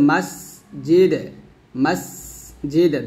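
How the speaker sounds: মাসজিদ with the দ bounced in a qalqala echo and the স hissed with air; echoing dal. Shown as a demonstration. A teacher modelling qalqala on মাসজিদ for students. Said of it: "দালটা কলকলা হবে".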